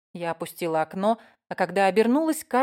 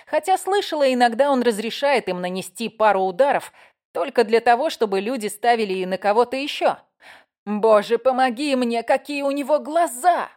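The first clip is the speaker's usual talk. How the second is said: excited gushing; 4 semitones higher, 5 dB louder than usual. Acted. Carly gushing over fighter.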